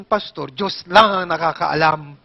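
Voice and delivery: imitating the old lady. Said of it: "ang sagot ba naman sa akin".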